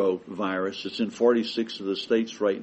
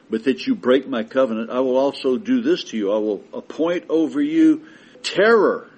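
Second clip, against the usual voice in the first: scripture read as God; 4 dB louder than usual. Acted. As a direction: thunder God's warning from Leviticus. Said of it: "God says".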